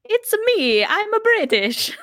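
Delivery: high, loud mock Mario-style Italian; cartoonish Italian accent. Co-host teases the host's failed accents, cartoonish Italian. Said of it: "it always turns out to be, like, cartoonish Italian".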